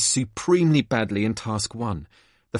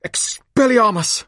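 spell shout; 10 semitones higher, 5 dB louder than usual. Acted. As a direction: shout the spell, high and slow. Casting the spell again.

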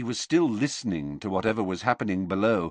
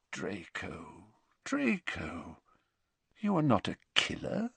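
gentle hush; 8 dB quieter than usual. A narrator's reading. Dumbledore gently addresses Draco.

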